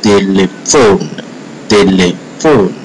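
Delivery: "telephone" stressed on the last syllable, "phone"; French "telephone", heavy ending; French final stress. Shown as a demonstration. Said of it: "it's the end that bear the heavy stress".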